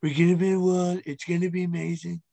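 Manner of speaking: lightly put-on presidential impression; Donald Trump. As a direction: do a mock politician's boast. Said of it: "I'm gonna do a voice".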